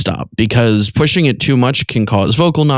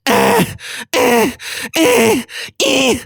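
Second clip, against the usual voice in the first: high cracking staccato ahs; crack sledgehammer attack; much slower than usual. Shown as a demonstration. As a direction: hammer short high cracked bursts. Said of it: "when you're doing the crack sledgehammer attack".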